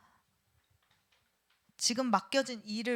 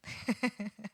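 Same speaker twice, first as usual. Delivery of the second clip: chuckle; 5 dB quieter than usual. Real, not acted. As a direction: chuckle quietly to yourself. Amused while leading the exercise.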